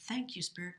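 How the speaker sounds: soft unvoiced whisper of thanks. Real, not acted. Reader thanking Spirit after drawing the rune, whispered. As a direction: breathe the thanks out, barely voiced.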